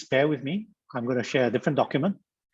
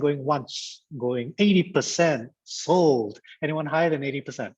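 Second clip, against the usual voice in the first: lightly voiced auctioneer closing a bid; playful auctioneer. Trainer closing the bidding on participants' guesses, playful auctioneer. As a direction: call it like a mock auction sale. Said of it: "This is like an auction".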